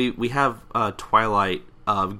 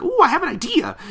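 high, louder burst of sudden inspiration; excited idea; 6 dB louder than usual. Acted. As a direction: squeal it like a cartoon pony's brainwave. Pinkie's bright idea acted out.

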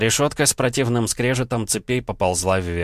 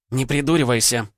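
snapping; 5 semitones higher than usual. A narrator's reading. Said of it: "огрызнулась она".

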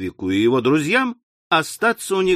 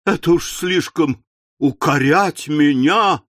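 wailing. Acted. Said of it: "возопила миссис Напкинс".

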